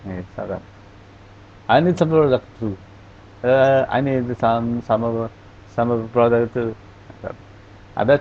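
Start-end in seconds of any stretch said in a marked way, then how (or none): 1.7-6.8 mock Irish lilt, fast, stumbling over some; unclear Irish accent. Shown as a demonstration. Teacher imitates a speaker nobody can follow, stumbling accent. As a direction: blur the words like a hard-to-follow Irish speaker.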